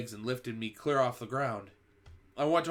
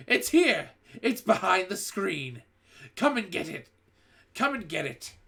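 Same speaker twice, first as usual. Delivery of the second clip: much higher, loud triumphant yell; 8 semitones higher, 6 dB louder than usual. A narrator's reading. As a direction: crow that you found it. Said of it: "yelled triumphantly".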